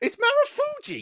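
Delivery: very high pitched voice. Retelling a friend's excited phone line: imitating Damon's voice. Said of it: "that was his voice of".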